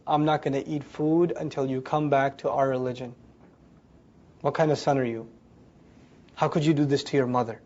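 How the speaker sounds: low, subdued reproach from a hurt mother; guilt-tripping mother. Acted. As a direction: lay on the guilt, low and measured. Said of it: "she says all the things that burn".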